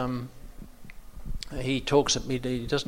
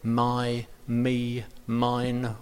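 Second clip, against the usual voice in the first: my, me, mine each given weight; emphasis on pronouns; much slower than usual. Shown as a demonstration. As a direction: lean on my, me and mine. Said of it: "you put emphasis on I".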